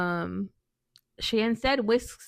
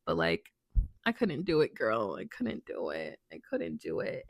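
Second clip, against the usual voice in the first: much lower and softer, sinking apology; quiet; 8 semitones lower, 5 dB quieter than usual. Real, not acted. Apologizing to the kind coworker, low and soft. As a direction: let the voice drop away, sorry. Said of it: "apology to coworker, sinking low".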